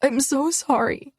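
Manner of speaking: muffled into his chest. Acted. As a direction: speak into a shirt. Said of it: "My words are muffled against him".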